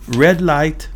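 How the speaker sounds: high-pitched alarmed cry; screamed warning. A narrator's reading. Tempest warning the driver, screamed.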